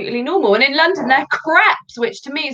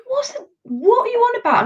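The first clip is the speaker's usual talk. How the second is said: high, puzzled imitation; mock bafflement; 14 semitones higher than usual. Guest imitating Londoners confused by her slang, high mock bafflement. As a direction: play the baffled listener, pitched right up.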